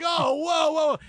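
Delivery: high, loud "whoa" of disbelief; mock-alarmed exclamation, pitched high; retold alarm. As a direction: react as if someone just swore on air. Retelling shocked control-room reaction.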